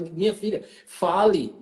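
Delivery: retold nagging, rising in pitch; insistent urging. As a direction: press them to speak up, pitch climbing. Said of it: "eu fico cobrando pra ela".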